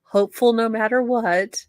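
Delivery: lightly voiced prim letter writer, self-righteous; reading the letter in character. Host reads inmate's letter to viewers, a lightly voiced prim letter writer. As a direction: read it like the wronged letter writer, only a touch put-on.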